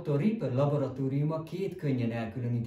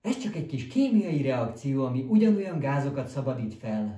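louder, eager explaining; enthusiastic; 3 semitones higher, 6 dB louder than usual. Acted. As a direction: gush about your experiment. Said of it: "lelkesedett doktor Reaper".

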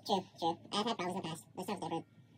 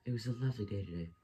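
light Peach voice; 3 dB quieter, faster than usual. Acted. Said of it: "I have to do Peach voice".

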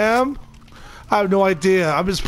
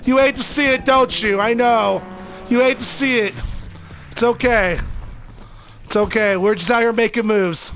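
taunting; 4 semitones higher than usual. Real, not acted. Taunting victim after kill.

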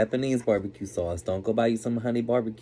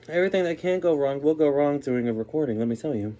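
normal talking voice

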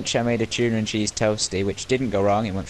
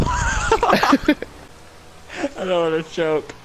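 squeaky high voice; 10 semitones higher, much slower than usual. Pretend. Caramel choking joke, high voice.

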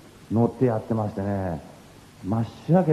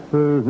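a breathy posed sigh, a bit higher; posing sigh; 7 semitones higher, 5 dB louder than usual. Pretend. Posing for the TV camera, mock breathy sigh. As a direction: exhale for the camera. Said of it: "なんて感じですけど".

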